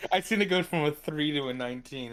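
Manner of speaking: delighted. Real, not acted. Player delighted about dice roll.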